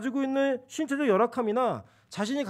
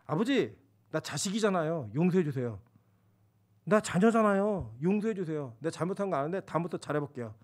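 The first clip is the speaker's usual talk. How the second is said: humble prayer; 4 semitones lower than usual. Retold or imitated.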